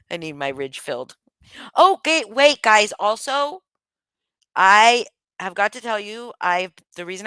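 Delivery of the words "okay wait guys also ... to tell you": excited. Real, not acted. Excited announcement to viewers.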